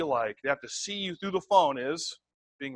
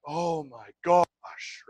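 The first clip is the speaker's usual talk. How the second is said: overdone gush; much slower than usual. Shown as a demonstration. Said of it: "it doesn't mean that you're like".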